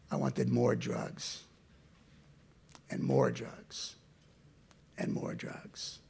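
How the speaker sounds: slow, slowly fading to a whisper; slow fading repetition. Real, not acted.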